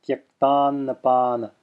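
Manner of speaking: tyaktannapana with the double n held; extended first n. Shown as a demonstration. Teacher showing the example word, held first n in tyaktannapana. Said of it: "extending that first n".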